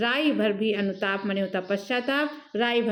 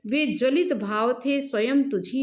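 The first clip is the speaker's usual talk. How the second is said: verse recitation. Acted. (लय में धीमा कविता-पाठ)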